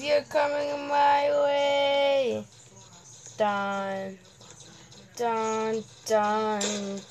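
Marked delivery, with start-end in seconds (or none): 0.0-2.4 slow taunting shout at the police. Real, not acted. Kid taunting game police, slow mock shout.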